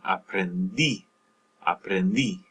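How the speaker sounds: aprendí with the weight on DÍ; final-syllable stress. Shown as a demonstration. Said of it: "you stress that syllable".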